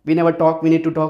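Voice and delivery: low, slow mock plea; drawn-out, low-pitched imitation; mimicked girlfriend complaint. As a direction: imitate her heavy relationship talk.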